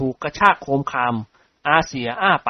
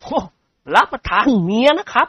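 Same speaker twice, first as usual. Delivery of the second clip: high servant's correction; Haew correcting; 9 semitones higher than usual. A narrator's reading. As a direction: set them straight on wife not mother. (แห้วแก้ว่าเมียไม่ใช่แม่)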